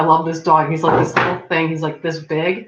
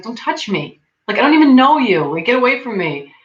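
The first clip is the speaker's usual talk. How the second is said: building to a louder, higher push-away; mock angry rebuff; 5 semitones higher, 4 dB louder than usual. Friend telling strangers to stop touching his hair, irritated. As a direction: swat them off, getting louder.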